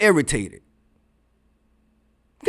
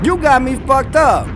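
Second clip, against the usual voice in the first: higher and punchier, leaning on YOU; stronger repeat; 5 semitones higher, 4 dB louder than usual. Real, not acted. Telling off a YouTube legal commentator, emphatic. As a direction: hit "You" harder the second time. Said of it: "repeated with more force".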